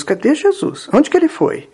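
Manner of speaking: high-pitched, seeking question; searching disciple. Acted. Pedro goes looking for Jesus, high searching voice. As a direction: call about for someone missing, voice lifted. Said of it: "Pedro saiu procurando".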